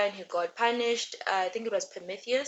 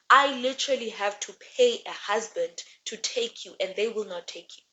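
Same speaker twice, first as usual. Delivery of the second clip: mild angry father. Retold or imitated. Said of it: "Helios gets mad".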